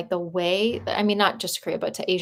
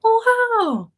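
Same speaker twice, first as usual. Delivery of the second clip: mock wow; 7 dB louder than usual. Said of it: "I was like".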